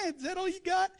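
mocking hyena. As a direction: sneer like a hyena. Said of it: "the hyenas are laughing".

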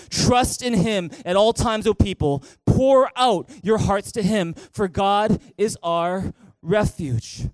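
slow, loud reading with the church; loud congregational reading. Real, not acted. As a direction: read it out loud together, slowly. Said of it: "read it with me".

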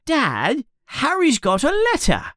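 put-on very high, fast child's voice; tattling yell. A narrator's reading. Dudley tells Dad about Harry's letter, tattling yell. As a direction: tell on him in a high, rushed yell. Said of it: "yells Dudley".

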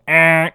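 imitated buzzer sound. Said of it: "just a simple".

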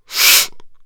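big exaggerated sniff; loud sniff. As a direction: sniff loudly. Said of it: "And then she sniffed".

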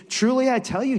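emphatic preacher voicing a rebuke; forceful answer. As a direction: answer the boast head-on, loudly. Jesus answers Peter's boast.

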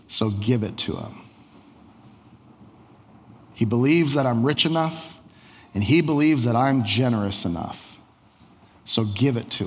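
calm, measured king. Acted. Alexander explains calmly, slowly.

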